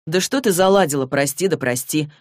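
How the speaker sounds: ordinary delivery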